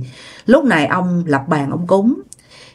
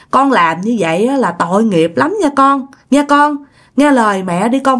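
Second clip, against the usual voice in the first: higher, a touch of mock crying; tearful pleading; 5 semitones higher than usual. Mother begging her dead daughter, mildly tearful and high. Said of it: "xúc động khóc".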